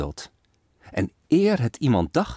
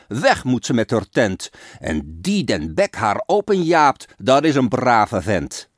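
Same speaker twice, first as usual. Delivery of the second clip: a touch louder, indignant crowd yelling; mob shouting; 4 dB louder than usual. Acted. Angry crowd turning on Truth, shouting. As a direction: rile up the mob against her. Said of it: "dus schreeuwt het wijd en zijd".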